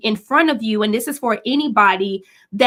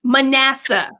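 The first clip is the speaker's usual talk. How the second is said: laughing mock call; 2 semitones higher than usual. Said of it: "And I'm like".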